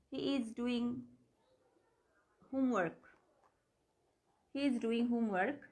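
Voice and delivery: slow, word by word; broken into words. Shown as a demonstration. Teacher breaking the sentence word by word for students. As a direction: lay out each word with gaps. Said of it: "ভেঙে ভেঙে বললাম".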